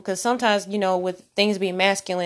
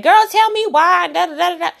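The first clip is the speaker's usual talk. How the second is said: put-on high, louder venting to a girlfriend; animated girl-talk, pitched way up; girlfriend phone rant; 10 semitones higher, 6 dB louder than usual. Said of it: "on the phone to our girlfriends".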